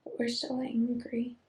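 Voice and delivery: drifting, hushed and spacey; spacey and subdued. Real, not acted. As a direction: speak as if half there, barely holding on. Spacey, dissociated, subdued state.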